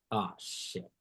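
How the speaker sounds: soft, sinking under the breath; dismayed mutter. Retold or imitated. Lost man hearing a strange language, dismayed mutter. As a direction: mutter it as it dawns on you.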